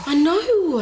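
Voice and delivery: high, loud exasperated wail; exasperated agreement. Acted. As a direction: wail it in dismay. Nurse panics over prank gone wrong.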